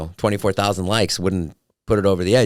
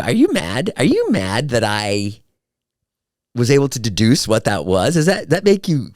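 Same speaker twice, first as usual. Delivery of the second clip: higher, incredulous teasing questions; mock-incredulous retold prodding; teasing challenge; 4 semitones higher than usual. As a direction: needle your partner about being mad. Teasing fiancee in a retold exchange.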